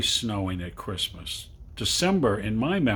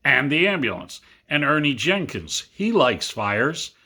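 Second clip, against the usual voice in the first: put-on excited boy; 4 semitones higher, 4 dB louder than usual. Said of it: "Jim said".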